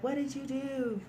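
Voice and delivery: high-pitched mock distressed cry; imitated crying. Crying friend confronts the cop, imitated high-pitched distress. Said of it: "like, crying".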